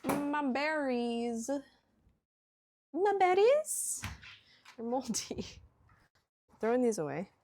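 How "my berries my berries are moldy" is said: high, drawn-out whine over berries; dismayed whiny voice. Real, not acted. Discovering moldy berries, put-on voice.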